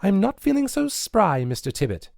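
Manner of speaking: sheepish excuse, eyes on the floor; sheepish girl. A narrator's reading. Nancy dodging the burning, sheepish high girl's voice. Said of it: "looking down on the floor like a sinner".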